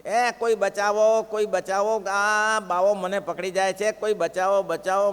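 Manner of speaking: hammed-up shouting for rescue; mock cries for help. The joking Lord calls out from under a cloth, mock yelling for help. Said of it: "સૂતા સૂતા રાડો પાડે".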